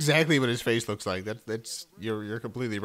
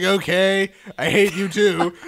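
breezy, louder shrug; casual indifference; 7 semitones higher, 9 dB louder, slower than usual. Retold or imitated. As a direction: toss it off, unbothered. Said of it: "She's like".

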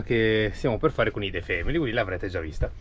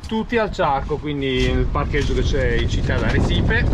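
wind on mic; 3 dB louder than usual. Real, not acted. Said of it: "Scusate il vento".

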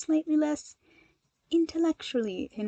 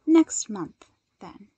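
decisive; 5 dB louder, much slower than usual. Acted. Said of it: "Momo clicked her pen decisively".

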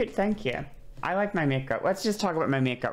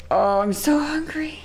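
whiny; 10 semitones higher, 5 dB louder than usual. Acted. Whining about late food.

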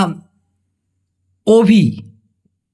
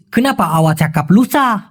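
slow reproachful question; much slower than usual. Shown as a demonstration. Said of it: "ওরা বলে".

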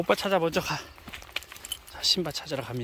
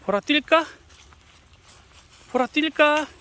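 calling out; 11 semitones higher, 10 dB louder than usual. Real, not acted. Calling the dog.

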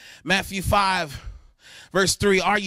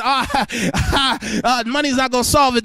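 laughing retelling; 3 semitones higher, 4 dB louder than usual. Retold or imitated. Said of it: "He said".

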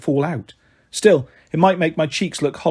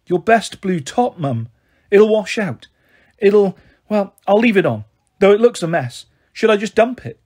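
lightly voiced frazzled mother, higher; fretting, a bit breathless mum; flustered mum voice; 4 semitones higher, 3 dB louder than usual. A narrator's reading. Mum's voice, flustered.

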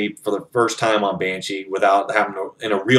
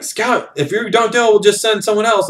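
threatening general; 11 semitones higher than usual. Retold or imitated. General pressures refusing scout.

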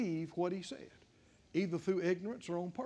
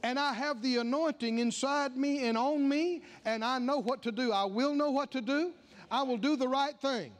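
a touch of bold certainty, a bit louder; confident confession; 4 semitones higher, 3 dB louder than usual. Shown as a demonstration. Preacher modeling faith-filled speech to congregation, firm. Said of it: "So I begin to talk like that".

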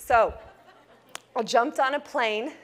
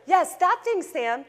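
exasperated yes; 8 semitones higher, slower than usual. Retold or imitated. Exasperated reply to Sam.

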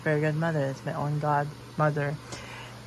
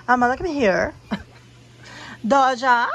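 calling the cat; 5 semitones higher, 6 dB louder than usual. Real, not acted. Calling her cat over.

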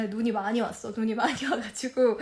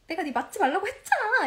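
higher-pitched mock nagging husband; retold scolding; 6 semitones higher than usual. Husband scolding wife about her lip filler, mock nagging. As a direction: imitate an exasperated I-told-you-so. Acting out husband's I-told-you-so.

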